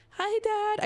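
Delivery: high, fake-casual hello; feigned innocence. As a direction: greet Dad as if nothing is wrong. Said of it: "pretend that I, that nothing is crazy here".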